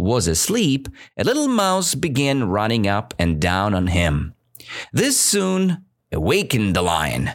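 clear, lively storytelling read; story reading. Acted. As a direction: read the fable to learners. Teacher reads fable aloud.

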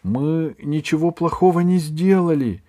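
high squeaky little gnome; squeak. A narrator's reading. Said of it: "пискнул гном".

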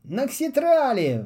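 slow amazed exclamation; exclaiming. Acted. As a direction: call the name out in wonder. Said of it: "воскликнул Полботинка".

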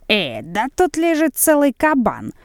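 high, joyful cry of delight. A narrator's reading. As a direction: exclaim with glee, clapping hands. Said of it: "вскрикнула она, всплеснув от радости в ладоши".

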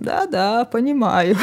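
a wooden talking tree, lightly voiced. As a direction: speak like a tree, stiff and woody. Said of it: "дерево говорит деревянным голосом".

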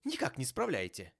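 high, protesting exclamation; exclaiming. A narrator's reading. Nephew contradicting his uncle, exclaiming. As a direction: object in lively disbelief. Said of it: "воскликнул племянник".

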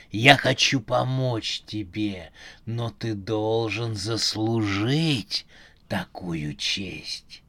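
low, slow robotic voice; slow, low, machine-like quiz host; metallic voice. Acted. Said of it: "металлический голос".

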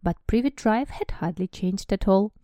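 lively English read-aloud; story narration. Acted. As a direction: read it like an audiobook. Reads book passage aloud.

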